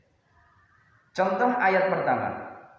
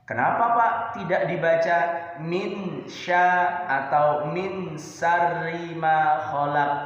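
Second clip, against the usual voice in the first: pupil's question; 2 semitones higher than usual. Acted. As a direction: ask it like a curious pupil. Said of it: "pupil's question voiced".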